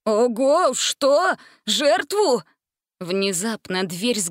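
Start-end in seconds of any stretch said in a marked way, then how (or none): 0.0-2.4 higher and louder, alarmed; a startled yelp of panic; frightened exclamation. A narrator's reading. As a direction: Jenkins alarmed at the word sacrifice. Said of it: "испуганно воскликнул".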